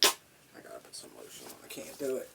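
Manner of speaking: murmured whisper to herself; whispered aside. Real, not acted. Reader whispering an aside about lotion. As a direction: drop to a whisper.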